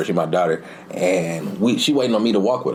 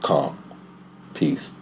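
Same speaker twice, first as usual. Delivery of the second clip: low, soft, spaced-out words; calming; 6 semitones lower, 5 dB quieter than usual. Retold or imitated. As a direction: soothe her down gently. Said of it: "And I calm her".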